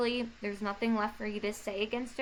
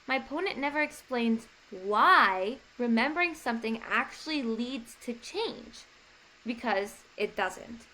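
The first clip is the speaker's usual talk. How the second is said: demo rebuttal line. Shown as a demonstration. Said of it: "So you could say".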